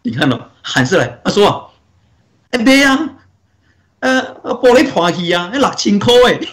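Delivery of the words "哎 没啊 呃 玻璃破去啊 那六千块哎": mock yell. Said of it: "就很大声喊".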